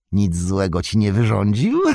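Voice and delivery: a hint of a croaking sneer; screeching. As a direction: scoff at the claim. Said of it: "zaskrzeczał".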